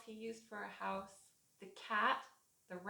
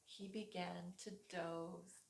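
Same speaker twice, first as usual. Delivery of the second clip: sleepy; 4 semitones lower, 11 dB quieter than usual. Acted. Flea falls asleep.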